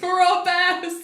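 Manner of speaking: high mock rallying cry; echoed battle cry. Co-host echoes for the bears, mock-heroic. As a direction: echo the war cry, hammed up.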